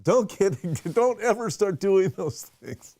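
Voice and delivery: mock-serious admonishment with emphatic stresses; stern mentor warning. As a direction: retell a mentor's emphatic "don't you dare" telling-off. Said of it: "and then he looked at me".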